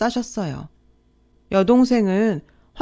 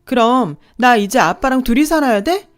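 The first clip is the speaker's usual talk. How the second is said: upset plea; 5 semitones higher, 5 dB louder than usual. A narrator's reading. Daughter pleads with father.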